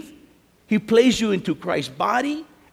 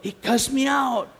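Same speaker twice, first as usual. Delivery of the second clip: chuckling through the words, higher; laughing; 5 semitones higher, slower than usual. Real, not acted. Preacher amused by the insult, laughing through it. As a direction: laugh while telling it.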